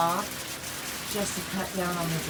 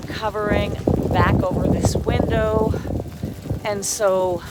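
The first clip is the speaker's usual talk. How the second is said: raised voice outside in the storm; loud over wind; 5 dB louder than usual. Real, not acted. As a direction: keep talking up over the wind.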